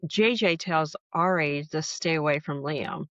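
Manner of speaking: talking around a hair on the tongue; words slightly hampered by a hair in the mouth; cat hair in mouth. Real, not acted. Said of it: "Sorry, I have a cat hair in my mouth".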